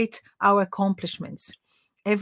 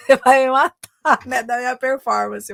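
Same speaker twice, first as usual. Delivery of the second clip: louder, higher, through laughter; laughing retelling; 4 semitones higher, 6 dB louder than usual. Retold or imitated. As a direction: retell the confession while cracking up. Retells client's confession while laughing. (contando entre risadas)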